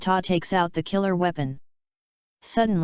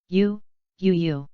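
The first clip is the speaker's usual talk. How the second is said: stunned stammer. A narrator's reading. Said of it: "eyes widened".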